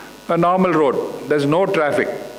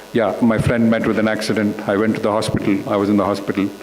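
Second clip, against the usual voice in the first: calm explanation; 7 semitones lower, faster than usual. Shown as a demonstration. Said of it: "react to that in a very calm way".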